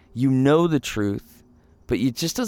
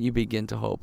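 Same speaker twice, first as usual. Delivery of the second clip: soft repeat; 3 semitones lower, 5 dB quieter, faster than usual. Shown as a demonstration.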